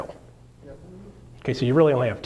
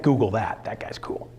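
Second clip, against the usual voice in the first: whisper; 5 semitones lower, 3 dB quieter than usual. Real, not acted. Aside to audience.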